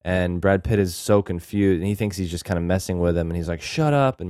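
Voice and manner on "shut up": angry snap. Retold or imitated. Angry Mills retold.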